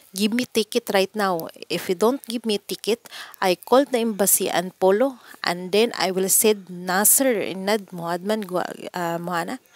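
retold furious demand to the employers; angry demand. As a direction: demand the ticket and threaten to report them. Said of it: "galit na galit talaga ako".

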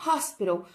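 hospital with the H breathed like a Portuguese R; H sounds like R. Shown as a demonstration. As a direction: say hospital starting with a throaty H sound. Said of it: "O H, ele vai ter um som de R".

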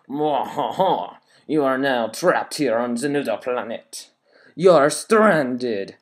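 mock French baddie accent; evil French accent. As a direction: read it as a sneering French villain. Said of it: "I'm gonna read it in a French accent".

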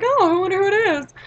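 high, loud sing-song wondering; mock curious. Friend answers a ding-dong ditched doorbell.

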